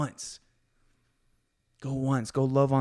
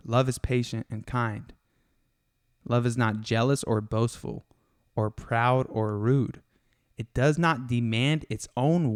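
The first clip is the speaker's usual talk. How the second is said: scripture reading. Acted. Reads scripture.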